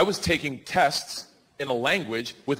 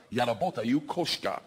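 halting Russian; 5 semitones lower, 4 dB quieter, slower than usual. Retold or imitated. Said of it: "I was gonna say".

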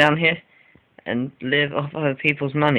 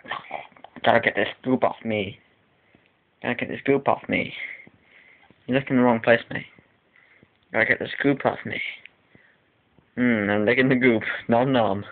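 imagined cat; 2 semitones lower than usual. Retold or imitated. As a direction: give the cat a mild put-on voice as it licks goop. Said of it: "The cat will be like".

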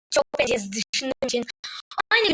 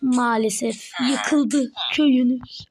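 mock crying; 11 semitones higher, 5 dB louder than usual.

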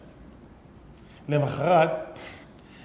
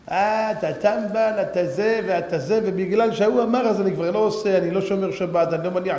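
mocking objector; 3 semitones higher than usual. Mocking the scoffers who talk people out of observance, jeering. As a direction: parody a silly objector, dragging the opening. Mocks those who confuse believers.

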